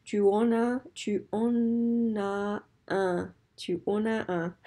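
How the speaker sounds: slow it down so students can follow. Shown as a demonstration. Teacher slowing "tu en as un" for students, carefully slow. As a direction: say "tu en as un" slowly, word by word. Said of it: "so just slow down".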